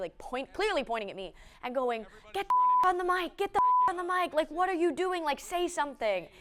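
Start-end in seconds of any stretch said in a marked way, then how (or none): 2.3-6.2 very high, swooping, shouted scream. Retelling a coach screaming at the announcer: imitating someone screaming. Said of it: "screaming, like, right at me".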